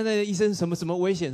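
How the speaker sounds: high, loud alarmed questions; retelling his shocked reaction to the vet; panicked confusion. Retold or imitated. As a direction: blurt it out in disbelief. His own panicked reply.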